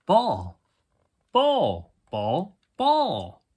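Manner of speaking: high yappy dog calling out; excited puppy. Acted. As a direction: yap the word like an eager pup. Excited dog barking word.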